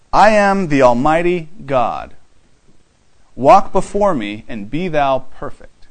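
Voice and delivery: weighty, displeased reading of "I am the Almighty God". Shown as a demonstration. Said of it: "something in the tone of God's voice".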